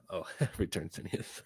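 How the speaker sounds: rereads "return Sineas" with a real laugh; laughing at a slip. Real, not acted. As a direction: laugh through the corrected reading.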